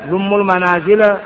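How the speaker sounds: ضم المنازل with the mim said dummu; Arabic: ضمُّ بالضم; damma on dumm. Shown as a demonstration. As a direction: end ضم on a u sound, dummu. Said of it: "ثلاث أوجه".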